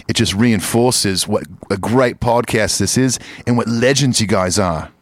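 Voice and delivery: mock Aussie read of the email; Australian accent. Shown as a demonstration. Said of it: "let me do that in an Australian accent".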